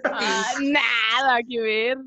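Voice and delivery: slow, fake-crying whimper; hammed-up wail of self-pity; mock whine. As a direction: pretend to sob over it. Jokingly lamenting low test score.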